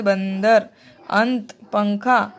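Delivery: बंदर, अंत, पंखा said slowly with nasal sound; nasal examples. Shown as a demonstration. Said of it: "हवा केवल नाक से".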